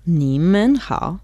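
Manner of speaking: slow careful repeat of "你们好"; repeating Mandarin. Shown as a demonstration. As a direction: repeat "你们好" slowly after the teacher. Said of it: "podemos decir así".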